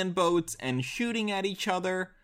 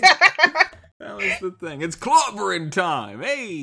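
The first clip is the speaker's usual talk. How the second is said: the Thing voice; 4 dB louder than usual. Retold or imitated. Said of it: "the classic Thing catchphrase".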